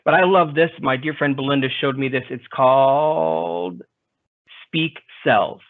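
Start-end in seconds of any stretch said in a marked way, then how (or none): 2.3-5.6 slow, drawn-out robot voice. Pretend. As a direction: read it like a computer speaking. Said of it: "my fake robotic voice".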